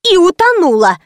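snide jab pitched high; mocking high quip. A narrator's reading. Client mocking the staff, snide high quip. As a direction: toss in a mocking retort. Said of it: "подхватила клиентка".

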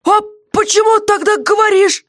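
high, interested question; ask, plainly intrigued; jailer's voice, curious. Acted. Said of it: "С явным интересом задал он вопрос".

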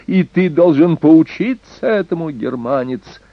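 high-pitched, taunting harangue; shrill cry. A narrator's reading. Young lord threatening the German with scorpions, shrill cry. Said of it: "визгливо закричал Эрнак".

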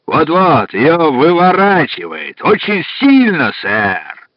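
put-on slow, heavy Irish accent. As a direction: speak in a thick Irish accent. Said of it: "сказал с сильнейшим ирландским акцентом".

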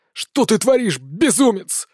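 irritated, angry. A narrator's reading. Villain snaps at the hero who struck him, irritated and angry. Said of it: "Тон ... раздражённым и злым".

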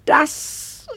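high, slow, voice breaking; anguished outcry. Acted. Lady pours out her grief over the gate. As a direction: let it burst out slowly, near tears.

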